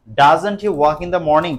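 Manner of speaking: slow, deliberate reading; slow dictation. Shown as a demonstration. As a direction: dictate it for the class. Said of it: "slow dictation". (ধীরে ধীরে বলা)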